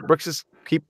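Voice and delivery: ordinary delivery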